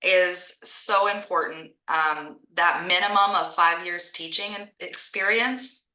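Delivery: talking while chewing a cough drop; words around a lozenge. Real, not acted. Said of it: "sorry, I'm chewing on my cough drop".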